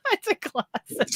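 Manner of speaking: high-pitched, laughing echo; laughing mimicry. Friend echoing husband's excuse for old truck, laughing mimicry.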